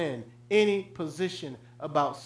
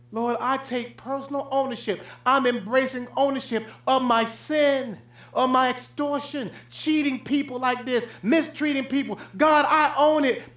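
humble confession; 5 semitones higher than usual. Retold or imitated. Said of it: "You would think that they'll be".

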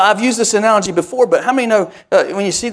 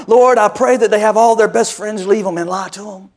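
mock prayer. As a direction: pray it like an earnest intercessor. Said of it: "that prayer would go".

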